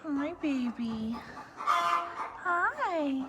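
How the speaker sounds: breathy whisper hello. Real, not acted. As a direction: hush and greet the newborn. Greeting newborn lamb softly.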